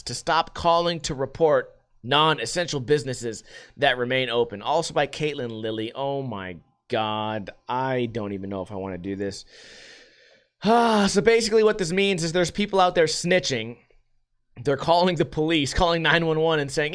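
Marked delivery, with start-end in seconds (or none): none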